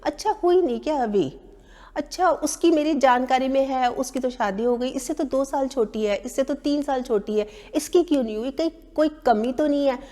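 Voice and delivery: lightly voiced nosy relative, mock concern; a hint of a relative taunting an unmarried woman. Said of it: "मतलब taunting वे में".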